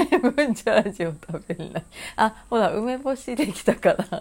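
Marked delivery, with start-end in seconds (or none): 0.0-1.9 laughing. Real, not acted. Laughs repeating son's line.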